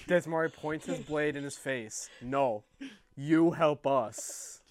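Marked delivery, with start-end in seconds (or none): 2.2-4.6 slow menacing threat. Acted. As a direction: lean in and menace him slowly. Character threatens with blade.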